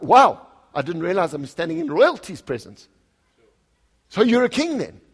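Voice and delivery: a touch of mock wonder, lightly sarcastic; understated sarcastic marvelling, not shouted; mild sarcasm. Preacher paraphrasing Pilate to the congregation, mild mock awe. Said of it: "he's like".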